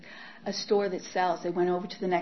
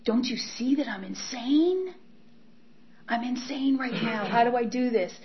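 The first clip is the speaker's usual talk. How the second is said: panicked pleading; 4 semitones higher than usual. Retold or imitated. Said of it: "and I'm like".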